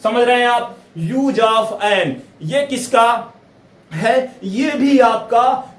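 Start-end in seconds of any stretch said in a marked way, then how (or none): 1.0-2.1 slow reading. Shown as a demonstration. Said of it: "teacher reading heading slowly".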